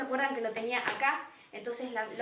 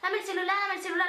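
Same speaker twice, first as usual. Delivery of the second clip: a lightly higher mocking thug tone; mock tough demand; 5 semitones higher, faster than usual. The sister's rough demand, lightly mocked. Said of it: "decía algo turro".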